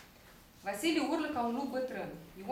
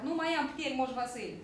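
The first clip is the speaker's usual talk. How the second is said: mildly despairing plea; desperate. Acted. Young shepherd out of strength, pleading in mild despair. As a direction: plead with a touch of despair, pitched up at first. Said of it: "Ion disperat".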